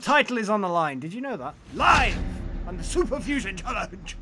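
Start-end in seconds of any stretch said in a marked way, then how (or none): 1.8-4.2 show announcer. Pretend. Mock announcement of title defence.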